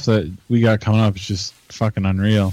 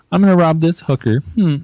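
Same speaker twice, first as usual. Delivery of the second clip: higher mimicry of a friend's gaming quip; Clint; 7 semitones higher than usual. Imitating friend playing Grand Theft Auto, high quirky punchline. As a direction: imitate his punchline capped with a hum. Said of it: "and he'll, like".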